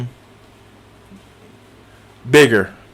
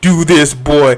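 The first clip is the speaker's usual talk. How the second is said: lower, lightly voiced stern warrior father; a hint of a stern god scolding his son; imitating Kratos; 4 semitones lower, much slower than usual. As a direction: gruffly boss the boy around, in a lightly voiced imitation. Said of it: "He was like".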